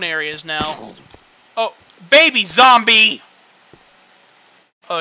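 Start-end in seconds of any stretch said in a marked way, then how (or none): 1.6-3.2 loud, slow, high surprise; startled delight; surprised exclaim. Real, not acted. Surprised at baby zombie.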